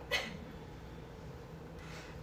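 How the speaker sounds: soft, voiceless teary sniffle; tearful breath. Real, not acted. Thanking everyone in the room, quietly choked up.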